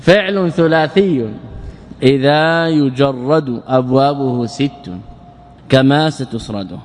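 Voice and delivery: slow chanted recital of the verse line. Shown as a demonstration. Teacher reciting the grammar poem to students, in a slow chant.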